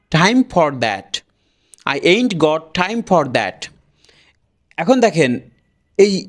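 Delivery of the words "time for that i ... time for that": "I ain't got time for that" slow, every word separate; careful full pronunciation. Shown as a demonstration. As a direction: sound out "time for that" slowly with the final T. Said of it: "এভাবে কিন্তু তারা উচ্চারণ করবে না". (আস্তে, পুরো উচ্চারণে time for that)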